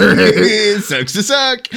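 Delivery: slow, drawn-out taunt. Pretend. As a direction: drag the taunt out smugly. Mocking Will Smith.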